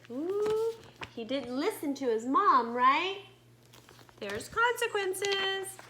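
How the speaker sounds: put-on lively read-aloud to young children; story narration. A narrator's reading. Teacher reading a story to her students, lively read-aloud. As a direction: tell it like a picture book to the class.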